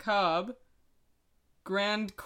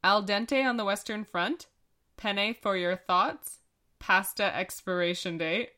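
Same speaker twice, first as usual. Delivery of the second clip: just reading them. Shown as a demonstration. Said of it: "You just have to read them".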